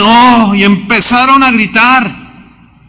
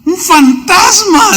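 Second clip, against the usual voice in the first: frightened cry; 12 semitones higher, slower than usual. Acted. Disciples shouting in terror at the ghost on the water, frightened cry. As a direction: shout it like you've seen a ghost.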